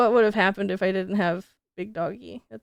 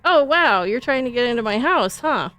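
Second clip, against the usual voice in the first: higher, louder mock surprise at the intruder; mock shocked; 4 semitones higher, 5 dB louder than usual. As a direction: act startled and a little sarcastic. Retelling a stranger forcing in.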